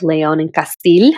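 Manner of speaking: names said in a Spanish accent; Hispanic accent. Shown as a demonstration. Host reading out a king's title, Hispanic accent. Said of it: "that's my Hispanic as-, as-, accent".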